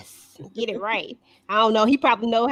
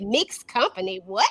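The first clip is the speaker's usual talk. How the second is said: incredulous echo; 8 semitones higher than usual. Real, not acted. Repeats the quoted phrase in disbelief.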